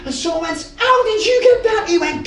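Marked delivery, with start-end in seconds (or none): 0.8-1.8 loud question. Retold or imitated. Coworker's shouted question.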